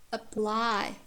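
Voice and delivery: "Apply" opening on a weak uh; careful "Apply" said uh-PLY; schwa first syllable. Shown as a demonstration. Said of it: "it has schwa sound".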